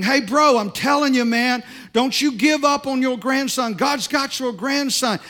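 put-on loud, high, half-drunk insistence; loud slurred encouragement from a drunk guy; loud drunk preaching. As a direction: shout it like a tipsy stranger who means it. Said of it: "he starts talking real loud".

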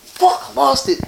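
frustrated whisper. Real, not acted. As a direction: hiss it out after forgetting the point. Loses his train of thought.

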